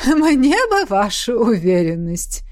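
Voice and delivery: slow, mocking amusement; amused. A narrator's reading. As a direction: tease as if about to laugh. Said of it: "рассмеялся Весауран". (с насмешливым весельем, протяжно)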